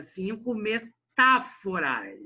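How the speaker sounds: CINCO METÁFORAS drawn out slowly, TÁ stretched; stress on TÁ. Shown as a demonstration. Teacher separating syllables for the class, CINCO METÁFORAS very slow with long TÁ. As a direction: break METÁFORAS before a long, strong TÁ. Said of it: "O tá".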